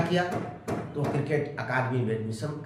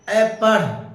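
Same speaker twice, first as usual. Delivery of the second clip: higher, louder barked order to study; mock parent's yell; 5 semitones higher, 8 dB louder, much slower than usual. Parent yelling at child to study, a loud bark. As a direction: bark the command like a nagging parent. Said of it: "बार बार केवल वो सुनता है".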